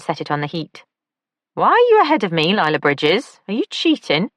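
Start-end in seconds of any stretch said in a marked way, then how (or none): 1.5-4.3 high, lively camp man; camp male voice. A narrator's reading. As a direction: lilt it up, high and playful. Oliver's voice in audiobook.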